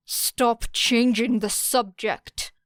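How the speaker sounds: snapped. Acted. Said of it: "snapped Todoroki".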